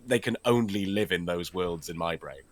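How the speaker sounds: ordinary delivery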